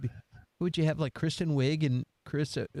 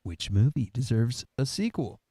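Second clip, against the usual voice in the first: much lower, playful reading; low-pitched question; 5 semitones lower than usual. Pretend. Host reading out the next question, playfully low-pitched. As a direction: drop the question into a low register. Question repeated in three registers.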